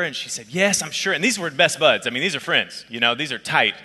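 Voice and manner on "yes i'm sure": insistent. Retold or imitated. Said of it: "I mean, she was angry".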